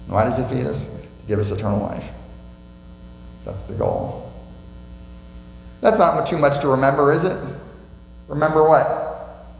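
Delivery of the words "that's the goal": whispered. Acted. Sermon key line, whispered.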